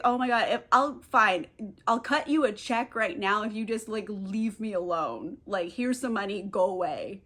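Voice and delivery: mock-exhausted surrender; exhausted, fed up. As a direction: give in wearily, sinking away. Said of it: "she's so exhausted of all of this".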